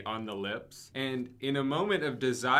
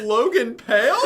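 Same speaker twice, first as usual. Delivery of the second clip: roar; 9 semitones higher, 11 dB louder than usual. Acted. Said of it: "He roared".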